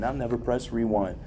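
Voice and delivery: light imitation of a southern accent. Friend's old saying remembered, light southern accent. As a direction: quote it with a touch of Southern twang. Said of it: "I just remember his accent saying".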